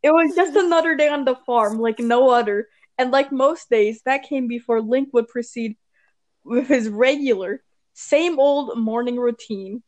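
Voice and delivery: measured read-aloud narration; story reading. Acted. Reads fan fiction aloud.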